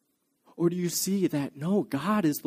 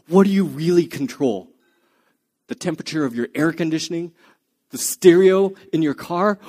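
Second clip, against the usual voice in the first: loud and pressing, hammering each question; hard lecturing; 5 dB louder than usual. Retold or imitated. Hopkins grilling the psychiatrist about control, loud and pressing. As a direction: drive the questions home like an interrogator.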